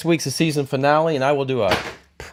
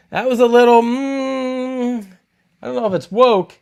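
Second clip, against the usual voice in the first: squeaky hesitation; 11 semitones higher than usual. Real, not acted. High mocking hesitation.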